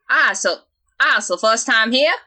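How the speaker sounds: badly attempted Midwestern accent; shaky-handed stab at a Midwestern driver. Driver greeting a newcomer, botched Midwestern accent. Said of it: "Just do Midwestern".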